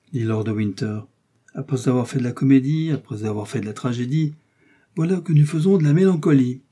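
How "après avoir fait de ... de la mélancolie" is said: taunting, building higher and louder at the end; mocking. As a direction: needle her about her play-acting. Winter mocks Milady's poses.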